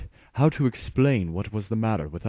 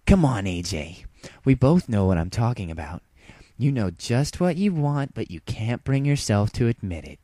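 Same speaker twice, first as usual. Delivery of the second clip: predatory tease; 4 semitones higher, 4 dB louder than usual. Acted. Rainbow Dash advancing, predatory.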